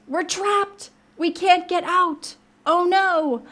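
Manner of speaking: high, drawn-out distressed squeal; squeaky mouse. Acted. Mouse crying out from the hole, high squeaky alarm. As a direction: wail in a tiny mouse's high voice. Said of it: "Squeaked Mouse".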